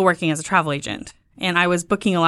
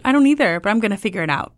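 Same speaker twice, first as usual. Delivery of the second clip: determined; 3 semitones higher than usual. Retold or imitated. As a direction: announce the plan with spunk. Wife answering husband.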